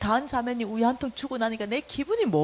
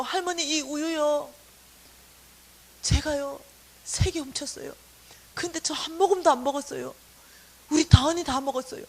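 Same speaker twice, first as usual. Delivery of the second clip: retold pleading confession; 4 semitones higher, 5 dB louder than usual. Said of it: "내가 죄를 고백해야 되겠다".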